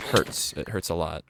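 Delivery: holding back tears on hurts; after crying. Real, not acted. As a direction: voice welling up with tears. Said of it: "getting a little teary".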